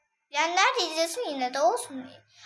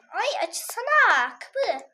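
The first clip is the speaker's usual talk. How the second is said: laughing; 4 semitones higher, much slower than usual. Real, not acted. Laughing at stuck door.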